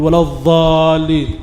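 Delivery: الضالين with dh in place of ض; mistaken Arab dad. Retold or imitated. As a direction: imitate the long dh error in الضالين. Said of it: "هذا خطأ". (تقليد خطأ الظاء في الضالين)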